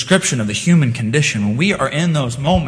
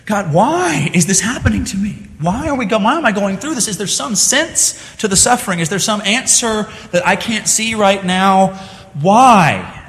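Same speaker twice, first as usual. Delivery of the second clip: pleading questions; 4 semitones higher than usual. Acted. Voicing sufferer's questions.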